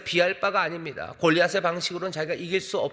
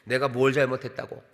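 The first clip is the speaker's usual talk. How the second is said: put-on mildly indignant kid-brother protest; talking back; 2 semitones lower than usual. Youngest to his scolding big brother, talking back. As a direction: push back like a wronged youngest. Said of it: "막내들이 형한테 좀 대듭니다".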